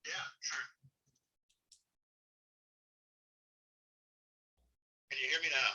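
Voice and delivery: talking through a speakerphone; phone speaker. Real, not acted. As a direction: heard over a phone on speaker. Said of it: "why don't I put you on speaker with my phone".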